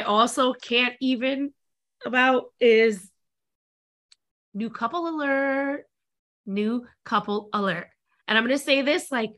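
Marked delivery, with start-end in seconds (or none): 4.5-5.8 sneering fake sweet. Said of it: "Mean Girl style". 6.5-7.9 sneering fake sweet. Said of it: "Mean Girl style".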